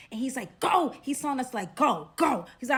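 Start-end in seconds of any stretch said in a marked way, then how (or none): 0.6-0.9 loud, raised-pitch command; imitating an urgent shout; retold urgent order. Man ordering them out. 1.8-2.5 loud repeated command; imitating a hurried order; retold urgent order. Man ordering them out.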